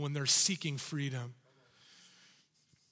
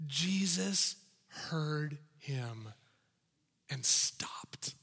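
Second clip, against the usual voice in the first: hushed narration; 3 semitones lower, much slower than usual. A narrator's reading. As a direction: let the moment hang, hushed. Dramatic pause in the story.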